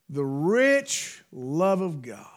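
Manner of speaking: slow, hushed whisper; slow awed whisper; reverent whisper. Real, not acted. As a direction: breathe it out in awe.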